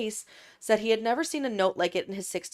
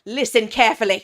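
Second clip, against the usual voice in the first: loud with an exclamation mark in a put-on foreign accent; emphatic put-on foreign accent; exclaimed, put-on accent; 10 dB louder than usual. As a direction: bark "Listen carefully" loudly in a put-on foreign accent. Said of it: "there was an exclamation mark".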